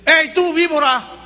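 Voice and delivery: grito agudo y fuerte a lo lejos; llámalo desde lejos con desprecio; llamado fuerte. Acted. Juan llama a la fila. (Juan el Bautista señala a la fila, grito agudo y fuerte)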